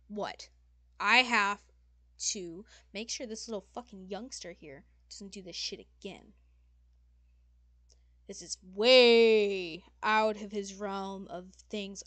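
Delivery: ranting, with loud bursts on key words; exasperated demon lady. Acted. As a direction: fume about a misbehaving youngster.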